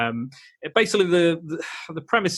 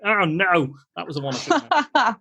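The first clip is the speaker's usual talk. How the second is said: mock self-reproach; 6 semitones higher than usual. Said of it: "go like".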